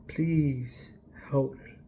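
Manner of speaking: slow, breathy whispered prayer; hushed, slow whispered prayer; whispered plea. Retold or imitated. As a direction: beg God softly for help. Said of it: "I go".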